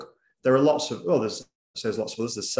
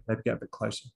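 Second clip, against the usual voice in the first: deliberate slow-down; 6 dB quieter, faster than usual. Shown as a demonstration. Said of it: "that will be quite deliberate".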